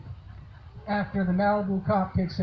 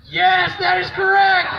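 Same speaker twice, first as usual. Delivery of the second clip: excited; 10 semitones higher, 8 dB louder than usual. Real, not acted. Trivia host confirms answer.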